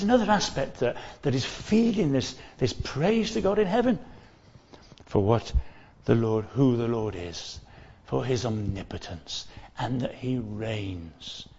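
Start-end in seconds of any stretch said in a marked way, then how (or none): none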